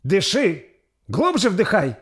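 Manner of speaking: put-on high, loud old woman's shout; shouting midwife. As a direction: bark orders at the woman in labour. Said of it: "кричала на Ингрид повитуха".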